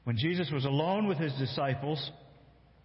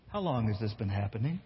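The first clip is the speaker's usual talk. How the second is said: lower, tired and exasperated ask; weary question; 5 semitones lower than usual. Shown as a demonstration. Jesus asking the father, low and exasperated. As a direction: ask it flatly, fed up. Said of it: "Or maybe Jesus says".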